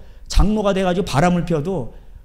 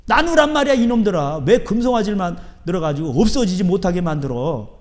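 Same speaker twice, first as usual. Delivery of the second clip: scolding outburst. Real, not acted. Scolding the rich churches. (꾸짖는 목소리)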